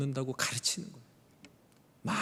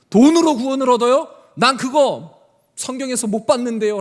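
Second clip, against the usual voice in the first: loud challenge; 7 semitones higher, 11 dB louder than usual. Acted. Luther challenging indulgences.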